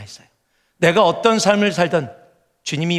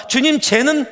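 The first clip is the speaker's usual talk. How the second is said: high, louder whiny grumbling; jealous believer's complaint; 7 semitones higher, 4 dB louder than usual. Retold or imitated. Believer to God, jealously whining about a friend. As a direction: gripe to God about someone else's luck. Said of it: "다른 사람 봐".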